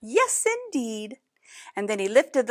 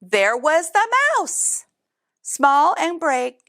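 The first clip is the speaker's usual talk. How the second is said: dramatic reveal; 6 semitones higher, slower than usual. A narrator's reading. Repeated reveal of mouse.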